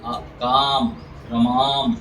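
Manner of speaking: आ and काम said with the mouth wide open, a long clear aa. Shown as a demonstration. Teacher showing students an open-mouthed long aa. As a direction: stretch the aa in रमाम with an open mouth. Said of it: "थोड़ा सा मुंह खोल के बोलते हैं".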